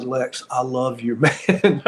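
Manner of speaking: words breaking into a laugh; grateful relief with a laugh; laughing thanks. Retold or imitated.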